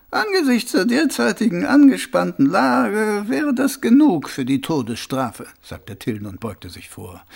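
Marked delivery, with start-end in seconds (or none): 0.1-5.5 menacing captain. Acted. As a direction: spell out the threat as a superior officer. Captain threatens prisoner with death penalty. (drohender Hauptmann, anfangs hoch)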